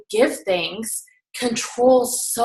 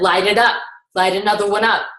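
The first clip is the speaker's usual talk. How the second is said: louder, forceful command; insistent order; 4 dB louder than usual. Retold or imitated. Tony presses the smoker to keep lighting, loud and forceful. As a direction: push the order hard. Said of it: "he gets in his face every time".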